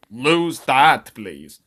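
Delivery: put-on firm order in a rough Romanian accent; attempted Romanian accent. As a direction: give the order as a hammy Romanian henchman. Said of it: "I can't do the Romanian".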